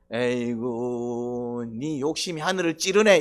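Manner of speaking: Jesus chiding the complaining brother, mock exasperation. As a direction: sigh it out, then needle him.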